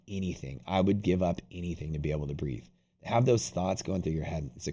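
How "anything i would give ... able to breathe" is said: hushed, pleading thought; soft inner plea to breathe; desperate inner thought. Retold or imitated. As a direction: murmur it like a desperate wish. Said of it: "That's the thought going through your head".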